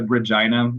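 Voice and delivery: Regina with a long "i", re-JY-na; current local pronunciation. Shown as a demonstration. Expert giving the majority's local way, Regina as re-JY-na. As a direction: say Regina so it rhymes with China. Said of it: "is pronounced as Regina".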